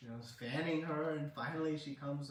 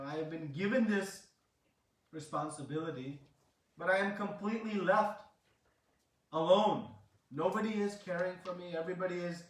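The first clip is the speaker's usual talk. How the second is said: plaintive retold lament, emphatic then subsiding; lightly acted complaint of being left all alone; 3 semitones higher, 4 dB louder than usual. Mala Mas complains that everybody ridicules her, lightly acted lament. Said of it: "So she is lamenting like this".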